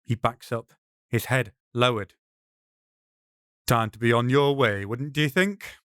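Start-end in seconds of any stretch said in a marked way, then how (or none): 3.7-5.8 gently firm dismissal; a touch of steel under calm; calm with force. Acted. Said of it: "The rabbi's voice is calm, placid, but there's a force".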